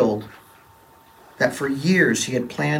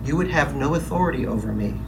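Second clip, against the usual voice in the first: calm voice. Acted. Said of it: "In a calm voice".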